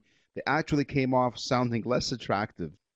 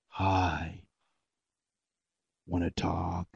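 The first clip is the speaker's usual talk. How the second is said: low, slow attempt at sexy; 6 semitones lower, 4 dB quieter, much slower than usual. Shown as a demonstration. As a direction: try to sound seductive, comes off creepy. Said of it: "We said a sexy voice, not some psychopathic stalker".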